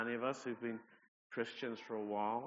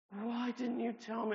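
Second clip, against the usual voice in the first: much higher, louder, slower cry; anguished repeat; 11 semitones higher, 4 dB louder than usual. Retold or imitated. Andrea repeating her reproach, higher and more anguished. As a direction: press harder the second time. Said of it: "she was so upset with me".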